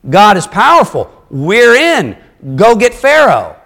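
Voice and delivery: imitating eager people getting swept up; mock excitement. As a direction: play the crowd cheering Moses on. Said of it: "They're like".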